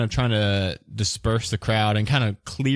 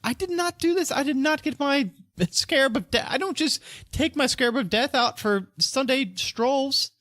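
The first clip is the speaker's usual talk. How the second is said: high-pitched, indignant merchant protesting innocence; affronted suspect, high and insistent; hostile denial. Acted. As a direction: bristle at the accusation, pitch jumping up. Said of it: "Why are you getting hostile?".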